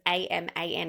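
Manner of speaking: Aman said as "UM-un"; Indian pronunciation. Shown as a demonstration. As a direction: say Aman with short "uh" vowels, stressed first. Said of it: "is pronounced Aman".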